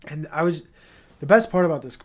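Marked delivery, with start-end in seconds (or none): 1.2-2.0 eager, louder rush into the best part; can't wait to get it out; excited burst. Real, not acted. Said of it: "sorry, I got so excited".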